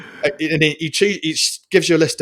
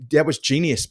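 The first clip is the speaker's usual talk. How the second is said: lightly attempted Australian twang, slightly raised; badly faked Australian accent; 3 semitones higher than usual. Retelling a friend's praise, rubbish Australian accent. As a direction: quote your mate in rubbish Australian. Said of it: "a really rubbish Australian accent".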